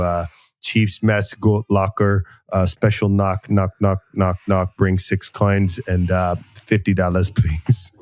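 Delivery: put-on Texan accent. A Navy chief invites sergeants to the mess, light Texan accent. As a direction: play a Navy chief with a mild Texas accent. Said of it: "just trying to place that accent".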